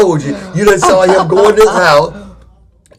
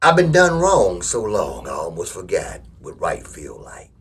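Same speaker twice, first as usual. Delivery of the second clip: slow saying; 10 semitones lower, 7 dB quieter, slower than usual. Shown as a demonstration. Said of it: "I'm gonna give you all this saying".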